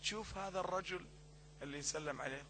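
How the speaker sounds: retold whisper. Believer confiding to the sheikh about a man, hushed. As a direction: lean in and confide it quietly. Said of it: "فهذا همس في أذني".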